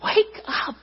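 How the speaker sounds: high, stretched-out call; urgent call from the Lord. Acted. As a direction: call it out to rouse sleepers. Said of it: "that's how the Lord would say it".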